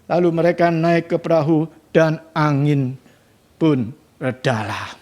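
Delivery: steady, measured Bible reading to the church; scripture reading. Acted. Reads Bible passage aloud. (pembacaan Alkitab yang tenang)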